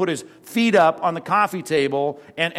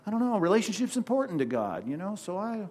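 higher, softer, dithering mock whine; whiny hesitant excuse; 4 semitones higher, 4 dB quieter than usual. Timid believer backing down from faith, mock whiny dithering. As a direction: trail off like you're talking yourself out of it. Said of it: "and we're saying".

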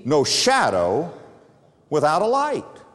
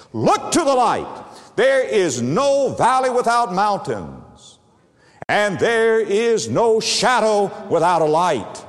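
preaching climax; 4 semitones higher than usual. Acted. Climax of sermon point.

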